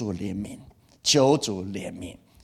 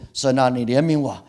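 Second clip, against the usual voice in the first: earnest plea to God, a bit louder; pleading prayer; 4 dB louder than usual. Shown as a demonstration. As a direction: beg for mercy from the heart. Pastor voices pleading prayer.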